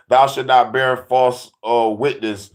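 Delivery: 1 slow solemn quote. Acted. Quoting commandments solemnly.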